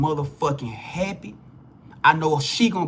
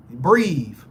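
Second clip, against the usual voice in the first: soothing; 5 semitones lower than usual. Real, not acted. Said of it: "get level with me".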